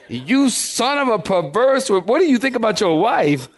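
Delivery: hammed-up furious Saul; angry king Saul. Preacher rereading Saul's insult to Jonathan with mock fury. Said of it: "that don't sound like that to me".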